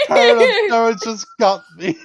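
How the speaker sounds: shrieking laugh then giggling words. Real, not acted. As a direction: laugh helplessly while talking. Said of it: "Out of character".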